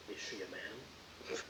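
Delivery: slow, low and very quiet question; deadpan retort. Retold or imitated. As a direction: murmur it slowly, down low. Repeats the suggested retort, deadpan.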